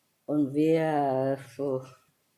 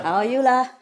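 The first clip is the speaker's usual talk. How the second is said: Singlish; 6 semitones higher, 5 dB louder, faster than usual. Retold or imitated. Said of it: "You always have to say La at the end".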